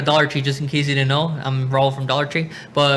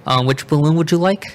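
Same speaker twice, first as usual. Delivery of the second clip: customer service voice; 2 semitones higher, 5 dB louder than usual. Pretend. Cashier role-play, laughing.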